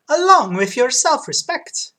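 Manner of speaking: high, loud Italian barber; Italian accent. Acted. Barber welcoming a customer, Italian accent. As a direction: play an exuberant Italian barber. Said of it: "kinda made him sound like Mario".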